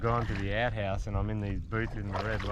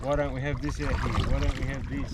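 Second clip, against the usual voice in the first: slightly raised, imitated grumble; mock complaining; 3 semitones higher than usual. City newcomer griping about rural life, mock complaining. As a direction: lightly act out a complainer. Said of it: "who are always complaining".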